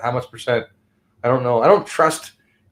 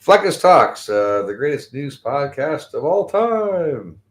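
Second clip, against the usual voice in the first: drawn-out, lightly announcer-ish; slow mock intro; slower than usual. Host retrying his podcast intro, slow and drawn out. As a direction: stretch the intro out slowly, half-remembered. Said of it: "how the intro goes again".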